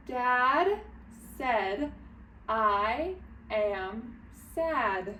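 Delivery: measured reading with shorter gaps. Shown as a demonstration. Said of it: "reading it a little bit faster".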